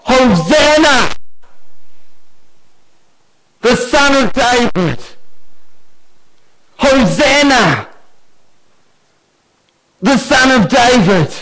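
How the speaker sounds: put-on high, ringing acclamation of children; children shouting praise. Preacher re-enacting the children's cry in the temple, ringing shout. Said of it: "the reason that I shout is because they were shouting".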